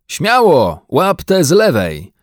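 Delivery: high, loud command; energetic boating order; shouted urging. A narrator's reading. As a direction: urge the bear on with a shout. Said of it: "odkrzyknął pan Brown".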